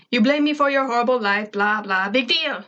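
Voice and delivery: fast, brushing-off rant; lightly voiced alien scoffing; dismissive. A narrator's reading. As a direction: wave it away. Zim dismissing Tak.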